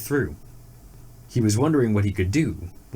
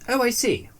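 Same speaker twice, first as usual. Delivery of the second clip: high sly exclamation; knowing rabbit; 14 semitones higher than usual. A narrator's reading. Rabbit feigning understanding, high sly tone. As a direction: play dumb, voice lifted. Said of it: "said the rabbit".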